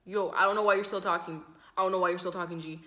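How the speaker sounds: put-on Toronto accent. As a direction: imitate a Toronto man's loud retort. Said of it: "he's talking like a Toronto accent".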